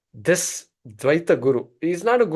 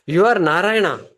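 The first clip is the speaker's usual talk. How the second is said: awed declaration; 3 semitones higher, 5 dB louder than usual. Acted. Guru repeats to barber.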